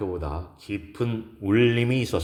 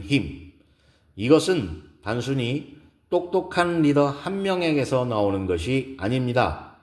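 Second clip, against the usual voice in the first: measured keynote speech with emphatic key words; lightly voiced speaker making each point to an audience; poised woman lecturer; 5 semitones higher than usual. Gives a lecture in story. (차분하고 힘 있는 강연 말투)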